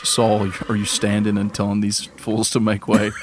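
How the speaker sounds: amused, half-laughing at his friend; laughing disbelief. Acted. Zahn laughing as he asks Saul about his order. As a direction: chuckle through the question.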